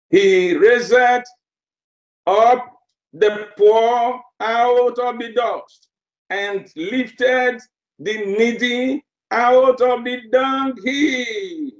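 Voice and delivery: slow, deliberate reading of the psalm; slow scripture reading. Acted. Preacher reading the psalm to the congregation, slow and solemn. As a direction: lay out each phrase with weight, slowly.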